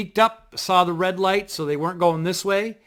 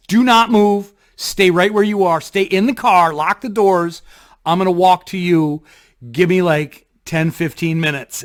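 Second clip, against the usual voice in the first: firm orders; 2 semitones higher, 6 dB louder than usual. Retold or imitated. Ordering friend to stay put.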